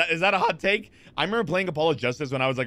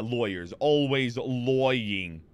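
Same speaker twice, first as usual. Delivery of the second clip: drawn-out, light mock Brooklyn drawl; Brooklyn accent; 2 semitones lower, much slower than usual. Streamer playing on lawyers always lying, weird Brooklyn accent. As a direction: stretch it out in a rough Brooklyn accent. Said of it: "like, Brooklyn accent of some sort".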